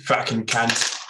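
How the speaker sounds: swearing that comes out British; a failed Aussie try that sounds British; British accent. Shown as a demonstration. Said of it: "now I just sound like a British guy".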